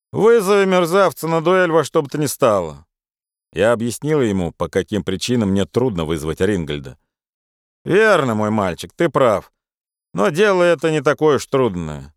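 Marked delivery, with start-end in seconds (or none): 0.1-2.8 brash Irish friend. Acted. Charles urges a duel. 7.8-12.1 brash Irish friend. Acted. Charles advises.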